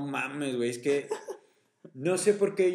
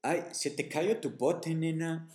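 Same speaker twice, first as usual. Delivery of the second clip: put-on Yucatecan accent; 3 semitones higher, 4 dB quieter, slower than usual. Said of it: "yo lo recojo de que".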